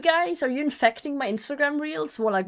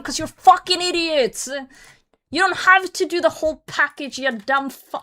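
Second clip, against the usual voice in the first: raised, louder ranting at the screen; heated rant, voice pitched up and pushed; getting aggressive; 6 semitones higher, 4 dB louder than usual. Real, not acted. Annoyed viewer ranting about shops that sell single cans. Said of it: "sorry, I'm getting aggressive".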